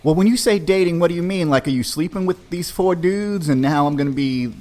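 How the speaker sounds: pressing for the truth; incredulous. Retold or imitated. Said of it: "I'm like".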